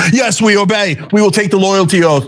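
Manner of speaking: mock obedient voters. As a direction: chant it like dutiful drones. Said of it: "Democrats in California would go".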